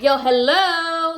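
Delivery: high, loud and slow "Yo, hello."; indignant call-out. Retold or imitated. To silent CJ during the pay fight, exasperated call-out. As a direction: snap him to attention, exasperated.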